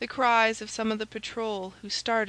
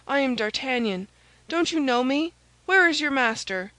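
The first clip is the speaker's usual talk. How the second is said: urgent call; 4 semitones higher, 6 dB louder than usual. A narrator's reading. Urgent hero silencing the screaming lackey.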